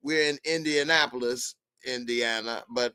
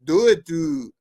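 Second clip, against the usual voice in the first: lightly mocked Canadian accent, a bit higher; attempted Canadian accent; 3 semitones higher than usual. Host showing how Canadians talk, tentative mock accent. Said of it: "They say, hey, no, they say".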